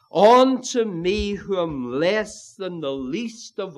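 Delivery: "Unto me" stretched and leaned on; emphatic ME. Shown as a demonstration. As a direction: lean hard on "me" before going on. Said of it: "That's emphatic also".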